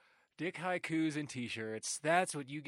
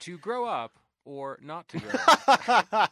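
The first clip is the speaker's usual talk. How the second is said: theatrical Shakespeare; 5 semitones higher, 13 dB louder than usual. Acted. Hamlet parody.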